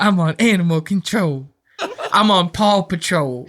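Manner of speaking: Joel's line mangled while laughing; mock Joel, laughing. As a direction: laugh through the dad impression. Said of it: "Joel's like".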